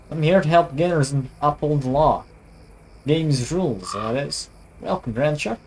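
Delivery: lightly voiced American sheriff, formal welcome; attempted American accent. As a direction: put on a hint of an American lawman. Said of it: "I should be doing a voice for him".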